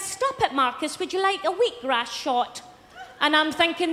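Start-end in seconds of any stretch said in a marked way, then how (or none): 0.0-2.6 lightly mocked, soft-spoken mother; imitated London mother. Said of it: "and she went".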